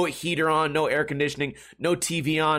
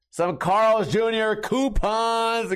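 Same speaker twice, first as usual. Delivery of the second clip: triumphant; 7 semitones higher, 3 dB louder, much slower than usual. Real, not acted. Triumphant reveal of coupons.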